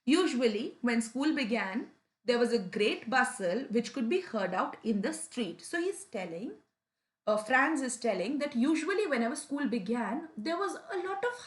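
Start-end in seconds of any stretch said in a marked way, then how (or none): 0.0-5.6 lightly dramatized storybook reading; a mild touch of storytelling color; expressive reading. Shown as a demonstration. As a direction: read the passage aloud with a little flavor. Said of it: "let me read it out for you with a lot of flavor".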